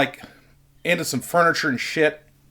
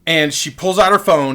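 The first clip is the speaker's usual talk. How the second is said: ordinary delivery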